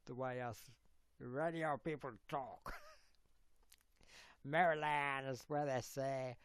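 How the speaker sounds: ordinary delivery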